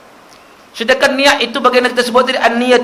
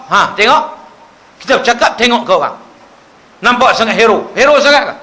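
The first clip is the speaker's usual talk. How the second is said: mock-angry elder telling off a child; scolding elder; 2 semitones higher than usual. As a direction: bark at the kid like a grumpy mosque elder. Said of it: "Dia marah budak-budak".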